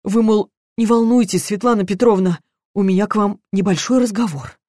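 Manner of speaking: housekeeper imitating the detective's sweet talk; mock gentle reassurance. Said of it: "А он ласково так".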